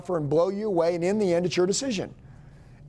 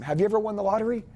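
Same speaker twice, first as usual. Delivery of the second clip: excited pitch; 4 semitones higher, faster than usual. Shown as a demonstration. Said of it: "ask them".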